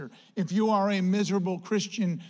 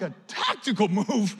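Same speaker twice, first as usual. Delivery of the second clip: laughing disbelief. Retold or imitated.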